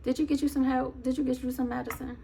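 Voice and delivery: softened nasty-nice check-in; mock concern. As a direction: gently needle with fake care. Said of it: "if this lady is watching".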